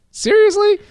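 a sharp high squeak of disbelief; disbelieving. Retold or imitated. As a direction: shoot way up in pitch, stunned. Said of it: "And I'm like".

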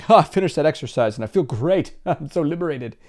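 hammed-up bubbly triumph; fake-perfect enthusiasm. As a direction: parody someone pretending all is great. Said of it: "trying to be perfect and be like".

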